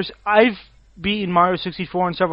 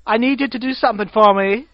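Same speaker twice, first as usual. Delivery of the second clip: lightly camp put-on voice; a hint of camp; gay guy voice; 3 semitones higher than usual. Asking a favor, lightly camp gay-guy voice. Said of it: "I love that voice".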